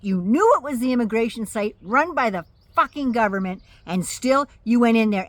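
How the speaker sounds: loud furious telling-off; angry shout. Acted. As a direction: yell at her for it. Scolding the food truck owner.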